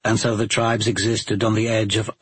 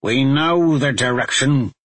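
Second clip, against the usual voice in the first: gruff arguing badger; 2 semitones higher, 3 dB louder than usual. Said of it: "Badger argued".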